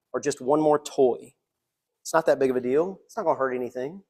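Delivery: softly coaxing, hushed but voiced; coaxing whisper in the ear. Preacher as Satan tempting you with distractions, softly coaxing. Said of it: "I'm gonna whisper in your ear".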